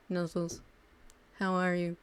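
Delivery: deadpan, flat uwu reading. Shown as a demonstration. Streamer reading uwu text in a dead voice, deadpan. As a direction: read the cute text with no life at all. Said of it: "in the most dead voice".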